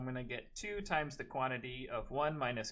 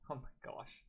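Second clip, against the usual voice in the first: mock gasp; 2 semitones higher, 10 dB quieter than usual. Mock shock at math.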